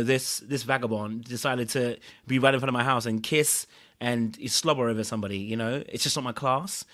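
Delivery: putting on airs. Retold or imitated. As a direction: lightly imitate someone above such behavior. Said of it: "it gave that little bit of air".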